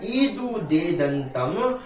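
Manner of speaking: ईदुदेदंतम द्विवचनम प्रगृह्य chanted very slowly; slow recitation. Shown as a demonstration. Teacher to class, reciting the sutra slowly. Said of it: "sutra recited slowly".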